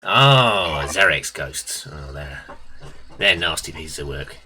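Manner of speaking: Bone Hunter. Acted. Shopkeeper recognizing Zarek's ghosts, lightly voiced knowing geezer. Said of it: "while doing Bone Hunter".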